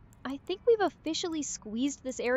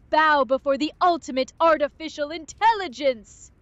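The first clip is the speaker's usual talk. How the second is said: intimidating villain; 3 semitones higher, 4 dB louder than usual. Pretend. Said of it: "Get more intimidating".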